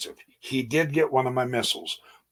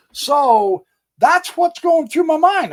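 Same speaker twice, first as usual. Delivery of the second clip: high, laughing through the words; amused laugh carrying the line; 14 semitones higher, 5 dB louder than usual. Real, not acted. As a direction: chuckle as you say it. Laughing after his own joke.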